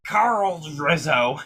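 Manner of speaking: slowly spelling out the name; slow clear repeat. Shown as a demonstration. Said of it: "who had little diving experience?".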